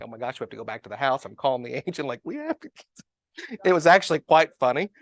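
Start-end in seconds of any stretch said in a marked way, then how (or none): 0.0-1.2 panicked. Retold or imitated. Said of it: "And then I'm panicked". 2.2-2.7 panicked. Retold or imitated. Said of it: "And then I'm panicked".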